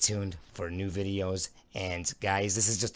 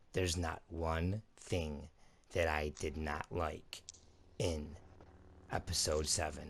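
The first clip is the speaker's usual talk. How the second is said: sincere; 3 semitones lower, 6 dB quieter than usual. Real, not acted. Sincere verdict on the movie.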